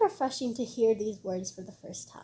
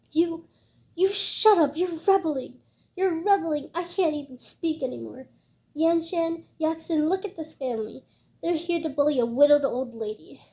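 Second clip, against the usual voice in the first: put-on higher, louder, furious old woman's outburst; old lady losing her temper, higher and louder; furious grandmother; 5 semitones higher, 4 dB louder than usual. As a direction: shriek it at them, trembling with rage. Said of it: "Zhao Shumi was trembling with anger".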